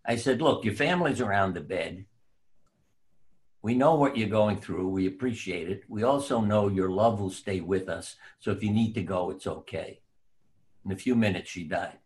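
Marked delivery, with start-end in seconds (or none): 0.4-10.0 gentle reassurance. Retold or imitated. Doctor to a comatose woman at her bedside, gently reassuring. Gently releasing a dying patient.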